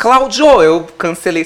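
calling out Cláudio loud and high; outraged protest at the name; indignant cry. Retold or imitated. Confronting Cláudio, shouted name. (grito indignado)

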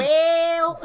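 real laughter breaking through; laughing. Real, not acted. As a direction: crack up laughing.

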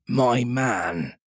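lightly voiced haughty captain; stern captain. A narrator's reading. Captain answering Silver, stern. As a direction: address him as an inferior.

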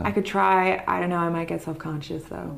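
put-on tentative American accent. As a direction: try out a light American accent. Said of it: "can you talk in an American accent for a while?".

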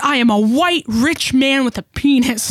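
mock an entitled customer, laughing through it; hammed-up indignant customer; mocking entitled man. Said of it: "And he's like".

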